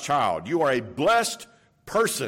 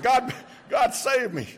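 excited exclamation; 9 semitones higher than usual. Retold or imitated. Retold joyful exclamation.

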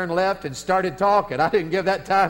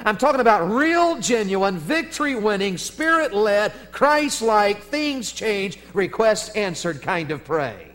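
rising, punchy list of praying, then slowing; preaching build-up. Acted. Preacher to congregation, building fervent list.

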